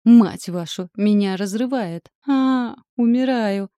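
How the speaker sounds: loud panicked screaming, almost howling; desperate shriek. A narrator's reading. Husband in wife's body panics, screaming in pain. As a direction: yell as if being torn apart. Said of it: "высокий отчаянный визг".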